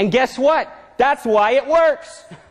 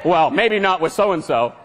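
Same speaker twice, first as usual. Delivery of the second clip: doubting little voice; 4 semitones lower than usual. Acted. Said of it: "Did you hear that again?".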